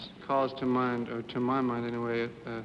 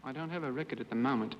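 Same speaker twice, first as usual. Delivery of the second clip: put-on Australian accent; 4 dB quieter, faster than usual. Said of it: "That was my Australian accent".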